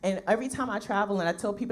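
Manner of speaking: ordinary delivery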